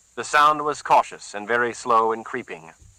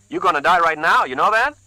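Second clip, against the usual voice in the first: put-on higher, louder threat with a light Puerto Rican accent; 9 semitones higher, 6 dB louder than usual. A narrator's reading. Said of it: "He spoke with a less pronounced accent".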